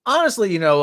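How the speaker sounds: hushed aside to the camera; whisper. Real, not acted. Vlogger whispers an aside to his viewers. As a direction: drop to a whisper for a confidential aside.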